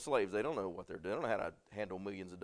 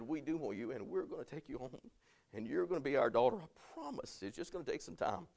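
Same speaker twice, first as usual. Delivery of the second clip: reassuring; 3 semitones higher than usual. Retold or imitated. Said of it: "I said".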